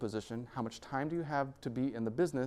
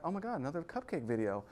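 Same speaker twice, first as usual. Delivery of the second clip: higher-pitched imitation of a delighted viewer; mock excitement; 5 semitones higher, 3 dB quieter than usual. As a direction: act lightly thrilled at one more video. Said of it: "and you're like".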